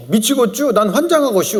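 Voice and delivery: lightly imitated Chungcheong lilt; comic Chungcheong dialect endings. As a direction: read it like a droll Chungcheong local. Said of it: "초보운전 딱지도 충청도는 달라요".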